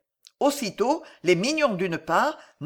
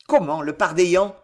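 exclaiming; 4 dB louder than usual. Acted. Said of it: "s'écria d'Apremont".

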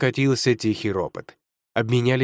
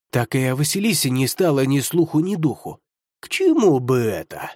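mocking. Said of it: "будто издеваясь".

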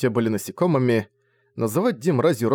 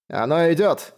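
tense warning; 5 semitones higher than usual. A narrator's reading. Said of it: "напряжённо сказал хриплый голос".

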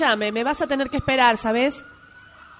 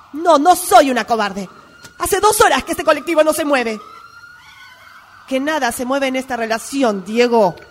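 angry; 5 dB louder than usual. Acted. Breakup over phone, raising voice.

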